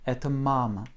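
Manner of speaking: "et mam" with stress on MA, final vowel reduced; stressed first syllable. Shown as a demonstration. Teacher modelling the Russian phrase, first syllable stressed in "mam". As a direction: lean on the MA in "et mam", let the ending fade. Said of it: "première syllabe est très accentuée".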